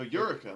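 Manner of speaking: Eureka said "YOOR-uh-kuh"; corrected pronunciation. Shown as a demonstration. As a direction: stress the first syllable of Eureka, "YOOR-uh-kuh". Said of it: "whatever way you guys were pronouncing it".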